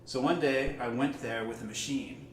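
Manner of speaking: gentle, measured poetry recital; poem reading. Acted. Reads a Mary Oliver poem.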